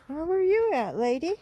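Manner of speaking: pet talk. Real, not acted. Calling a straggler animal.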